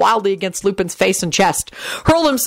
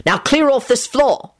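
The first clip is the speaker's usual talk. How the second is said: slow, higher-pitched command; firm order; 6 semitones higher than usual. A narrator's reading. Ordering someone off the floor, firm. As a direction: order them out, drawn out.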